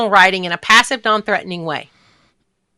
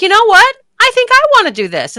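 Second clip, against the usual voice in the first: eager convert; 10 semitones higher than usual. Retold or imitated. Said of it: "they're like".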